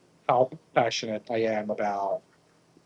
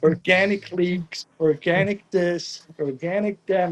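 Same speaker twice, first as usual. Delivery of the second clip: higher-pitched, mock-frantic list of errands; urgent orders; 4 semitones higher, 3 dB louder than usual. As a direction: re-enact rallying helpers with rapid-fire demands. Acting out frantic orders to helpers.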